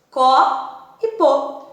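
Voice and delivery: có e pô, each syllable drawn out apart; syllables split slowly. Shown as a demonstration. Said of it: "ela tem duas sílabas". (sílabas separadas devagar)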